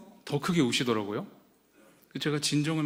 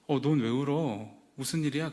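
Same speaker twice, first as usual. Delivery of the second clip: gentle. Retold or imitated. Brother gently asking crying sister, mock gentle. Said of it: "저는 좋은 사람이에요".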